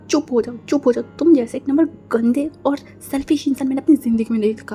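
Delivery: loud, fed-up telling-off; sharp rebuke to a selfish boyfriend; angry scolding. Acted. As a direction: shut him up, furious. Girlfriend scolding her boyfriend.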